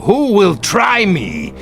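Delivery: shout. Acted. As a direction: bellow the challenge back. Captain shouts at ghost.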